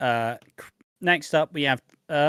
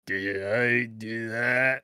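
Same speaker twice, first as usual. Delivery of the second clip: mock Urkel impression; much slower than usual. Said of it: "it would be like me just going".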